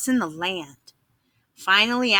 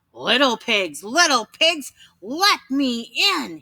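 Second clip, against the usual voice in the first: mild growl, slowing on let me in; a hungry wolf at the brick door; lightly voiced wolf growl; 2 semitones higher than usual. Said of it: "he growled".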